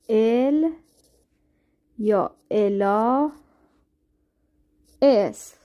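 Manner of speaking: ال, الا, اس said slowly as Spanish "él, ella, es". Shown as a demonstration. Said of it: "بذارین اول تلفظش رو براتون بگم". (ال یا الا اس را آهسته اسپانیایی تلفظ کن)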